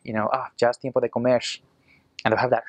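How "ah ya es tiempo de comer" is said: quick rural Costa Rican Spanish with a sh ending; rural Costa Rican accent. Retold or imitated. Imitating country folk calling to eat, rural Costa Rican accent. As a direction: rattle it off like a Costa Rican farmer. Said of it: "they'll say".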